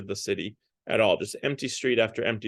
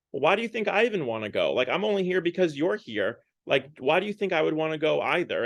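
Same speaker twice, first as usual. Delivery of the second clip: higher-pitched mock indignation; indignant retort; 4 semitones higher than usual. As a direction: retort like an arguing boyfriend. Acted arguing couple, man retorts.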